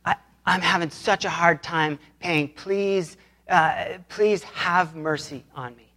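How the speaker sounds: mild, subdued plea; begging. Retold or imitated. Servant pleading with his master over a debt, subdued begging. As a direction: plead slowly, with gentle restraint. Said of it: "he begs him and he says".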